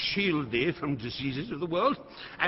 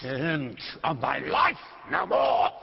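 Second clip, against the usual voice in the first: furious command; 3 dB louder than usual. Acted. Lear silencing Kent in fury.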